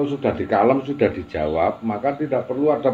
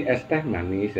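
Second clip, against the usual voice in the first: "Es teh manis" softer and lower with small gaps between the words; little pauses; 4 semitones lower, 7 dB quieter, slower than usual. Shown as a demonstration. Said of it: "dikeki spasi sithik".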